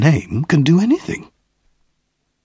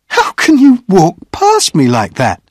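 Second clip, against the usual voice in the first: higher-pitched character voice, mildly indignant; lightly voiced woman's reproach; reproachful woman; 5 semitones higher, 4 dB louder than usual. A narrator's reading. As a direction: chide someone who walked straight past. Woman playfully reproaches him.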